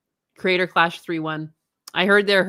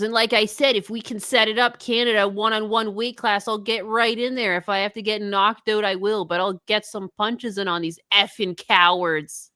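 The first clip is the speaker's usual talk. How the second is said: lightly voiced ranting streamer; a restrained take on a combative streamer; P W R impression. Streamer challenging detractors to a fight, lightly mimicked rant. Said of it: "You do a really good P W R".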